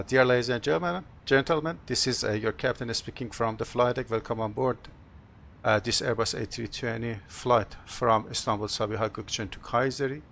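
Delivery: pilot addressing passengers over intercom; captain's PA announcement. Pretend. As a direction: welcome the cabin as the captain. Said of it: "Have a short announcement".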